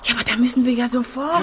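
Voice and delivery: hurry, no time to lose; hurried eagerness. Acted. Urgent rush to rescue photos.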